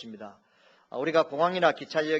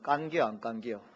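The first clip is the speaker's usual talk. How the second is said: Chungcheong dialect; 2 semitones lower than usual. Shown as a demonstration. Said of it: "충청도는".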